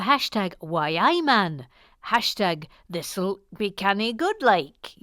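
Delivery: badly attempted Newcastle lilt; woeful Newcastle accent. Shown as a demonstration. Host demonstrating for a viewer, shaky Newcastle accent. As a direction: have a poor go at Newcastle. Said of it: "my attempt at a Newcastle".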